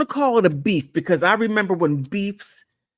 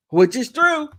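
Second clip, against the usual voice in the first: laughing, pitched higher; 7 semitones higher than usual. Real, not acted. Host repeating his verdict, laughing. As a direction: say it again through a laugh.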